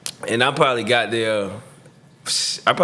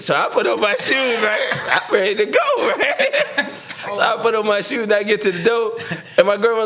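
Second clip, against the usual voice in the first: laughing; 9 semitones higher than usual. Real, not acted. Laughs retelling putting on shoes.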